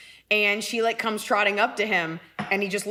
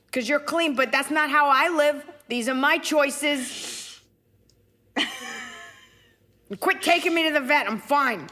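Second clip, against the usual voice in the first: high, indignant cat voice; higher put-on streetwise pet; Gracie; 6 semitones higher than usual. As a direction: protest like an offended stray cat. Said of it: "This is Gracie".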